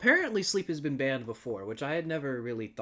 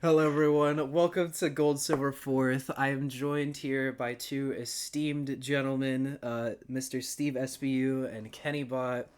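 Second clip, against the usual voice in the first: vlogger. Acted. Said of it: "my YouTuber voice".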